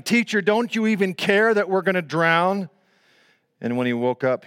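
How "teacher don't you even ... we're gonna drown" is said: raised, higher urgent cry; mild acted shout. Frantic disciples waking Jesus, half-shouted plea. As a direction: call out in mock alarm.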